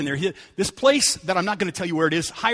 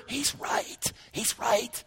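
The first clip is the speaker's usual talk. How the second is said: breathy hushed whisper, much softer; soft secret whisper of reassurance; Holy Spirit whisper; 12 dB quieter, much slower than usual. Retold or imitated. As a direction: whisper it like a voice in the heart. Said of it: "for the Holy Spirit to whisper".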